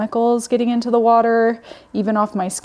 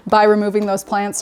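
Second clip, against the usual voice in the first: normal talking voice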